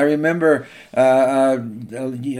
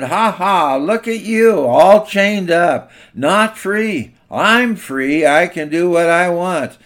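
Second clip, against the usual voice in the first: mocking, sing-song jeers pitched higher and louder; taunting bulldog; 4 semitones higher, 4 dB louder than usual. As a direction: sneer at the chained dog like a cocky bully. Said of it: "laughing and taunting".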